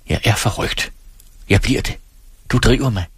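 vehement, half under her breath, rising at the end; fierce and low. Acted. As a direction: hiss it out, then let it flare. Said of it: "Hun svarede hæftigt og lavt". (hæftigt og lavt)

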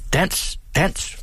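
high, breathy cry to dance; mother crying out to the children; mock shout. A narrator's reading. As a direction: urge the children on. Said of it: "råbte moren".

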